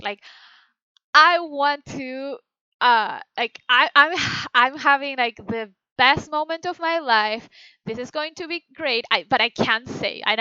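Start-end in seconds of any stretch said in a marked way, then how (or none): 1.1-7.5 thrilled. Shown as a demonstration. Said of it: "the one that I ended up doing".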